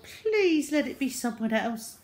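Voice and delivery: put-on high, urgent child's prayer; anxious plea. A narrator's reading. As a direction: pray hard to be spared. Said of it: "he thought".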